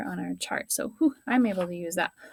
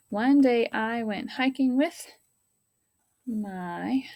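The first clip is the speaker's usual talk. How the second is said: whispered reread; 2 semitones higher, slower than usual. Shown as a demonstration. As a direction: whisper the sentence, slowly. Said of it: "rereading the sentence in whisper".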